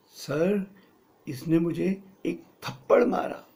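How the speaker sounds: थप्पड़ stressed and drawn out. Shown as a demonstration. Boy complaining to the teacher, leaning on थप्पड़. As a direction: lean on थप्पड़. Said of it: "वज़न किस पे है? थप्पड़ पे वज़न है".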